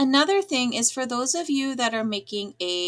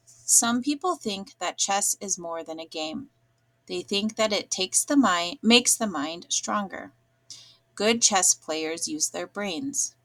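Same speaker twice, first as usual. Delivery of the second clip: boring flat reading; deliberately dull, lifeless read; flat, no inflection; 3 semitones lower than usual. Shown as a demonstration. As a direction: read it dull and monotone, like a script. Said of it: "I'm gonna read it first without any inflection".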